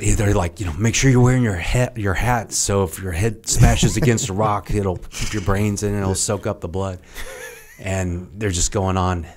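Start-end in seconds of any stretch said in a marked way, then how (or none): 0.7-7.0 mock drill-instructor bark; mock instructor yell. Instructor shouting safety warning.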